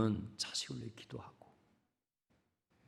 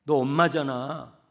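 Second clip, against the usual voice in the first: God's shouted command; 11 semitones higher, 16 dB louder than usual. Acted. God commanding Hagar to rise.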